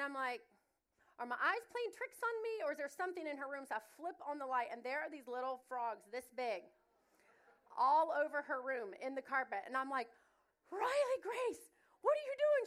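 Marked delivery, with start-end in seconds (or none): 1.2-3.7 high, startled question to herself; a mom doubting her own eyes; startled disbelief. Retold or imitated. Mom seeing frogs on the carpet, startled disbelief. Mom shocked at moving things. 10.7-12.7 high, loud calling her daughter out; shocked mother calling out a child; mom's shocked scolding. Retold or imitated. Mom finds frogs in her daughter's room, shocked scolding.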